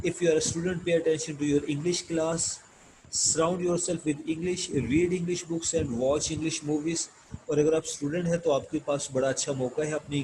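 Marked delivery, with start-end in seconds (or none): 0.1-7.1 slow, deliberate textbook read-aloud. Acted. Teacher reading English lesson text to students, slow measured reading. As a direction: read it out slowly, phrase by phrase.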